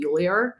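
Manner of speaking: "Yuliar" with an R tacked on the end; added R ending. Retold or imitated. Quoting how Aussie friend says the name, added R on "Yuliar". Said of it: "add R's to the ending of words".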